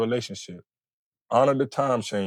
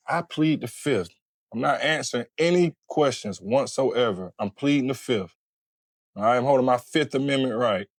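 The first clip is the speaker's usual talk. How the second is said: hostile refusal; 4 semitones higher than usual. Shown as a demonstration. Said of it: "instead of just saying".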